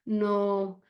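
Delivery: put-on light Syrian accent, a little slow; lightly accented English with a Syrian lilt; a hint of a Syrian accent, unhurried. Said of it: "he said in his Syrian accent".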